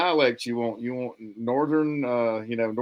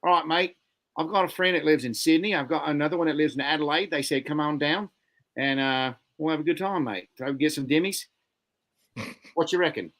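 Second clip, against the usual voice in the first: a light mock Australian accent, pitched up; 4 semitones higher than usual. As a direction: chat to a mate in a breezy Australian accent. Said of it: "Tombs wants to do some Australian".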